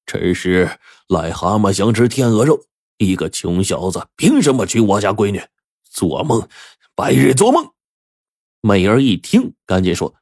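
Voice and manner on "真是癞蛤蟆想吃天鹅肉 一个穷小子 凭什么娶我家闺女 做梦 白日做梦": angry scolding. Acted. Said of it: "舒屠夫唾沫飞溅的就骂了起来".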